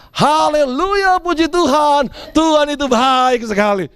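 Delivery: slow, sugary hallelujah; mock joyful older brother praising God; mock pious praise. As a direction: pretend the brother is delighted. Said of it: "Maka jawab kakaknya".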